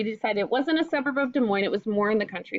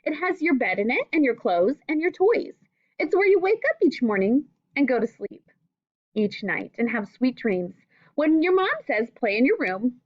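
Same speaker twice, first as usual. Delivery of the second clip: clear, gentle read-aloud to a class; reading to children; 3 dB louder than usual. Acted. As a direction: read the book aloud to young pupils, patiently. Teacher reads picture book to class.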